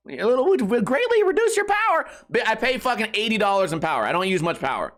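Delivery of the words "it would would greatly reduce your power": high-pitched sales pitch; mocked salesman. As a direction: push the pitch in a high put-on voice. Salesman's objection acted out.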